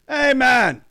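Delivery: high, loud put-on voice for the rock singer; a rock singer's voice. Retelling how the singer greets the naked band, in a high loud voice. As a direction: pitch way up and belt it like a hard rock band's singer.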